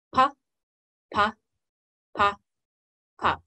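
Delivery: "pa" spaced evenly with a gap after each; one detached "pa" per slow beat; slow regular beat. Shown as a demonstration. Teacher going back over the pattern, slow regular beat. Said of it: "our slow one being our regular beat".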